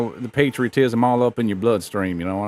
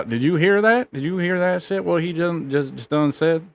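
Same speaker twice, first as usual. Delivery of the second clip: 1 indignant disbelief; 7 semitones higher than usual. Pretend. Streamer outraged at clip.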